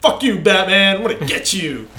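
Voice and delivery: loud mock villain taunt over a loudspeaker. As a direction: shout it like a cartoon villain. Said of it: "the loudspeaker's like".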